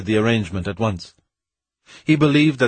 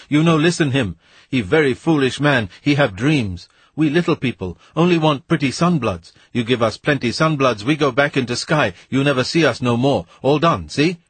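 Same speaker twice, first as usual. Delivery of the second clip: frantic wheedling shout; 4 semitones higher than usual. Acted. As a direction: drown him out, pleading. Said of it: "he shouted".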